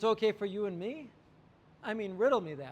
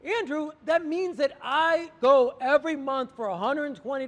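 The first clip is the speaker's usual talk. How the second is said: higher, louder, gushing thanks; excited client; 4 semitones higher, 7 dB louder than usual. Retold or imitated. Client thanking Andrew for cutting her salon bills, excited. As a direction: rave about the savings like a thrilled customer. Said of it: "And she's like".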